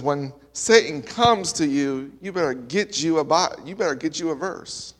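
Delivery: a hint of a Southern pastor's accent, retold. Pastor quoted warning about Satan, light Southern accent. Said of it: "had a southern accent".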